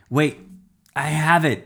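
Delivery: high, urgent shout; yelled. A narrator's reading. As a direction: call out to stop them. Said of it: "a man yelled".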